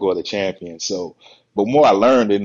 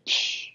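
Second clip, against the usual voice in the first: imitated short, airy psh; dismissive scoff; 8 dB quieter than usual. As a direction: brush someone off with a puff of air. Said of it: "he did the same thing".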